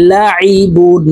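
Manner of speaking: লাইবুন with the আইন pressed from the middle of the throat; throat-pressed ain in লাইবুন. Shown as a demonstration. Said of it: "হলকের মধ্যখান থেকে চাপ দিয়ে উচ্চারণ করতে হবে".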